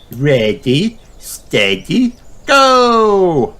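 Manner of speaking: building to a high loud go; race start. Acted. Peppa starts the race, building to a shout. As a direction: launch the race with glee.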